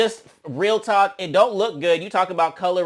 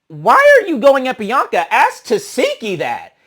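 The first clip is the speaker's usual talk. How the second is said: indignant; 7 semitones higher, 6 dB louder than usual. Retold or imitated. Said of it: "And I'm like".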